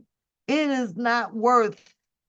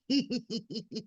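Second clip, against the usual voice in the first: soft wheezy giggle; quiet, rapid snickering; laughing; 9 dB quieter than usual. Real, not acted. Streamer tickled by her own insult, giggling.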